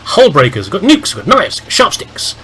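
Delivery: hammy recruitment-ad voice; announcer-style weapons list. Pretend. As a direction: rattle off the arsenal like an ad. Reads out squad's weapons list.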